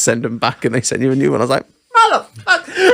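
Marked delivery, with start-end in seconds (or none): 1.9-2.9 very high, drawn-out mock outrage; retold exasperated curse. Teller learns of the warranty too late, high mock outrage. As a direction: squeal the curse slowly, half laughing.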